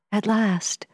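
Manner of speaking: breathless whisper to oneself; whispered thought. A narrator's reading. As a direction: whisper it in awe. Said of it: "I thought".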